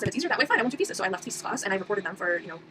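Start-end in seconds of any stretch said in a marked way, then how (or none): 0.0-1.0 raised, higher, louder defiant push-back; defiant retort. Retold or imitated. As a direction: throw back a fed-up "fine" in a retold argument. Defiant retort to thesis teachers.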